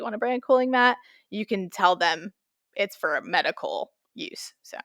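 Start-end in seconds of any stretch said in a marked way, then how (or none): 2.7-4.8 hushed aside, slightly slower; conspiratorial whisper. Acted. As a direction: whisper it like a secret. Confiding a loophole to listeners.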